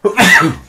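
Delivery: one sudden loud sneeze; sneezing. Real, not acted. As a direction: let a real sneeze burst out. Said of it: "Excuse me, I'm gonna sneeze".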